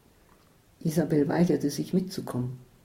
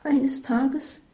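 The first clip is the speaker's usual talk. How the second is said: higher, breathless whisper; hushed confession; 8 semitones higher than usual. Acted. Isabel confessing, whispered start.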